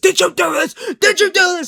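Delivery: put-on character scream, very high, climbing. Retelling a line from a movie trailer: imitating Reed Richards screaming. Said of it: "He's screaming".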